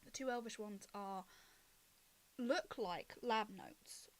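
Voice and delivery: slow, halting, softened scene setting; game master narration. Acted. Game master describes muddled notes to players, slow hushed narration. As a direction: unfold the discovery gradually, with long pauses.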